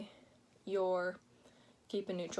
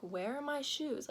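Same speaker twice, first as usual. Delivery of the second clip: higher, puzzled asking; questioning; 5 semitones higher than usual. Retold or imitated. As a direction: ask it like the shoes are lost. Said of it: "Like, questioning".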